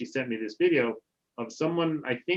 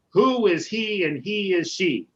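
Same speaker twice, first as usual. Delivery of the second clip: teacher's mnemonic; 6 semitones higher, 5 dB louder than usual. Retold or imitated. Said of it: "and she would say".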